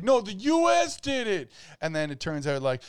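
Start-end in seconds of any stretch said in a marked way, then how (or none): 0.0-1.5 higher, slow put-on voice for China; voicing China in a higher, slower mock denial; mock China denying. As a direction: play China denying it, slowly. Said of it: "And China's like".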